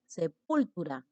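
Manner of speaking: "sepultura" stressed on the second syllable, sePÚLtura; wrong stress on PUL. Shown as a demonstration. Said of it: "porque tú no dices".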